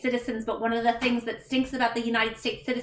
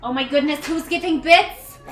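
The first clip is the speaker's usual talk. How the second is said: louder, rising astonished question; happily taken aback; real surprise; 4 semitones higher, 7 dB louder than usual. Real, not acted. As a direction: exclaim it, stretching into a high finish. Surprised by incoming bits.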